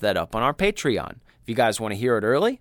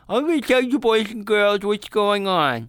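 jack o lantern voice; 9 semitones higher, 5 dB louder than usual. Acted. Podcast host put-on creepy voice.

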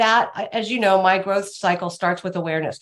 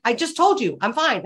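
mildly irritated; 3 semitones higher than usual. Retold or imitated. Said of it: "'cause I'm like".

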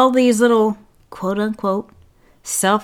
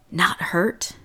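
whispering; 6 dB quieter than usual. Real, not acted. Emphatic hushed question.

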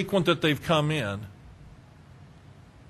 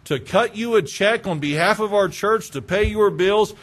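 louder, indignant preaching; indignant rebuke; 3 semitones higher, 3 dB louder than usual. Pretend. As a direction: scold them with righteous anger. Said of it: "what my flesh has wanted to say".

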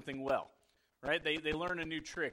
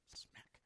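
whispered smack; 18 dB quieter than usual. Retold or imitated. Ball hits face.

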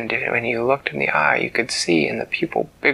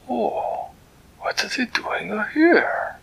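higher, eager cat-king voice; a delighted, fussy creature greeting a friend; Flibbertigibbet's voice; 11 semitones higher, slower than usual. Acted. Storyteller voicing Flibbertigibbet greeting Winella, high and delighted.

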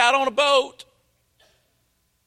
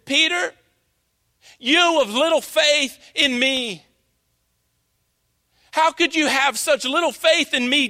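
mild mock rebuke of a disappointed Jesus; lightly voiced stern scolding. Preacher imitating a scolding Jesus, mild mock rebuke. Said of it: "Jesus' tone was this".

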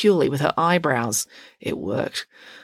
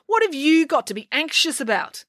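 scornful; 10 semitones higher than usual. Acted. Pillsbury scornful.

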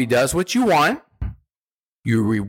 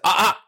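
sharp interrupting ah; 6 semitones higher than usual. Shown as a demonstration. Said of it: "the sound that I like to use is".

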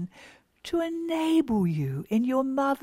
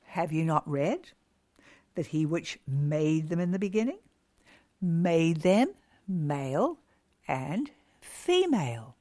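scripture reading; 6 semitones lower, 3 dB quieter than usual. Retold or imitated. Jesus answering the Pharisees, read solemnly. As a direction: read the verse like a sermon quote. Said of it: "and he said".

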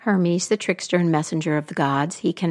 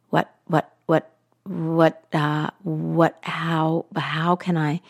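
lower, halting, frightened queen; stuttering; 3 semitones lower, slower than usual. Acted. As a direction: stammer it out in panic. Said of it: "stuttered the queen".

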